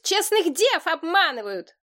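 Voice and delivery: высокий ломкий мужской вой; воет ломким юношеским голосом, высоко; воющий юный парень. A narrator's reading. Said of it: "выл кто-то". (Айла воет голосом ломкого юноши)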